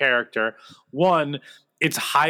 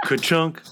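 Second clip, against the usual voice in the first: rubber stamp thunk; 2 semitones higher than usual. Pretend. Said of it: "that's not a stamp sound".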